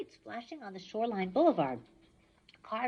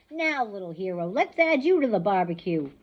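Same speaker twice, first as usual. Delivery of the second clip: gloating threat; 10 dB louder than usual. Acted. Ares gloating after laughing.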